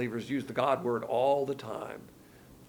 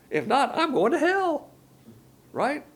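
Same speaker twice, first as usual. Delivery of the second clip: mock panic; 11 semitones higher, 4 dB louder, slower than usual. Mocking the hustling believer.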